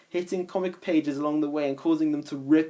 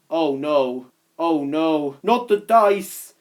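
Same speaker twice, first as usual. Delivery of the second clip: alarmed; 5 dB louder, slower than usual. Acted. Snaptrap alarmed.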